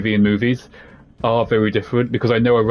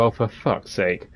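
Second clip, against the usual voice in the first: slow, softer weary groan of a retold reaction; exasperated eye-roll; 2 semitones lower, 5 dB quieter, slower than usual. Streamer recalls reading about the game's twist, exasperated. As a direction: recall rolling your eyes, drawn out and quieter. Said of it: "made me roll my eyes and go".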